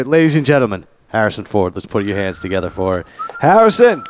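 announcer hyping a guest; grand entrance announcement. Acted. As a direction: present him like a show host. Host introduces guest to applause.

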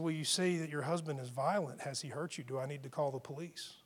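soft, cutting concern; quiet pointed question. Retold or imitated. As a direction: quietly put her on the back foot. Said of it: "set her back on her heels".

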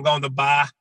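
attempted Boston accent; dropped-R Boston vowels. Shown as a demonstration. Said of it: "Give me your Boston accent".

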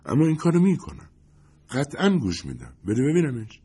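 eagerly grab the CD; happily. Acted. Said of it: "با خوشحالی گفت".

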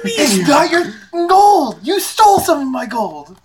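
heated accusation. Real, not acted. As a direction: accuse them indignantly, pitch up. Accuses in squabble over gold.

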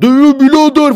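high, loud yelled call; mock shout. Mocking a brawler calling out, loud yell. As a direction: bellow it like a street tough. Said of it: "falan diye bağırsın".

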